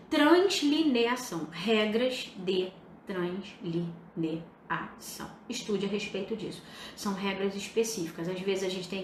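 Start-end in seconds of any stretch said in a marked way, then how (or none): 0.1-5.3 slow, drawn-out dictation to a class. Real, not acted. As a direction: spell it out syllable by syllable for note-taking. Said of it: "Anota aí no seu caderno". (ditado pausado, sílaba por sílaba)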